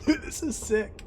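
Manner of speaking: can't contain the thrill; excited. Real, not acted. Player reacting to the game, excited burst.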